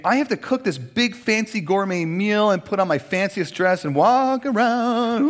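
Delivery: rising, sing-song, slowing to a high whoa; playful teasing of an overblown block party; mock fancy host. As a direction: ham up a fancy gourmet party plan. Bree might think.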